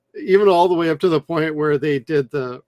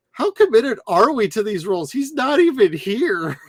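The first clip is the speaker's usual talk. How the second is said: higher quoted Clara voice, a touch incredulous; lightly voiced Clara, higher; quoting Clara; 7 semitones higher, 3 dB louder than usual. Friend retelling Clara's line from the show, higher and incredulous. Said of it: "Clara's like".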